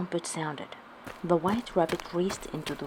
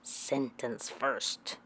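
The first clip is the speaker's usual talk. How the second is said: thundered; 5 semitones lower, 8 dB quieter, much slower than usual. A narrator's reading. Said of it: "the Queen thundered".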